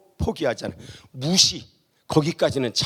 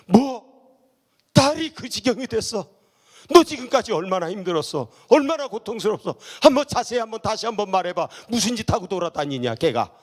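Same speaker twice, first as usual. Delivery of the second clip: imagined concerned reaction; 3 semitones higher than usual. Pretend. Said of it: "이렇게 나와야지".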